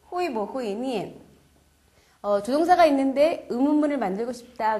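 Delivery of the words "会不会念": each syllable spelled out slowly; slow model reading. Shown as a demonstration. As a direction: read it slowly for learners. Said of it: "너 여동생은 읽을 수 있니?". (천천히 또박또박 읽는 예문)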